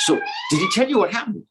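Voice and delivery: squeaky falsetto, quick; excited girls in falsetto; curious gopis. Acted. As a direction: pounce with a very high, hurried question. Waiting gopis questioning Lalita.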